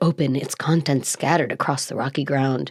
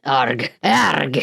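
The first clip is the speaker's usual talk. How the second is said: pirate growl; 2 semitones lower than usual. Retold or imitated. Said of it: "I did do it in the accent".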